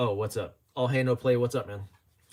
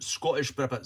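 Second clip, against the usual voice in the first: Scottish accent. Shown as a demonstration. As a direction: redo the name in a Scottish accent. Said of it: "practicing my Scottish accent".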